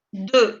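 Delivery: "Deux" ending on the vowel, no X sound; silent X. Shown as a demonstration. Teacher showing French two, silent X. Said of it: "No se pronuncia la X".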